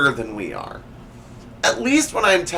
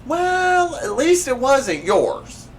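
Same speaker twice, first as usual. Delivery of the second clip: high mock-comforting remark; 11 semitones higher, slower than usual. Real, not acted. Dry joke about corpse.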